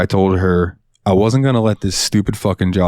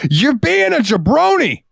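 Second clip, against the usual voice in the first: high, slow taunting voice; mock insult; slower than usual. Cashier retells taunting a customer in a slow high voice. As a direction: drag out the insult. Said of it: "I said".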